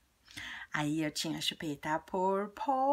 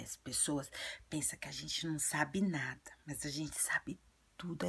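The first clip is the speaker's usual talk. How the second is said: confiding; 3 semitones lower, 5 dB quieter than usual. Real, not acted. Sharing a secret about adults.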